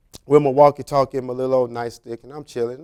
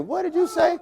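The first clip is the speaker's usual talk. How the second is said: shocked shout; 13 semitones higher than usual. Retold or imitated. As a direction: yell it in total disbelief. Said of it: "I'm looking at this dude like".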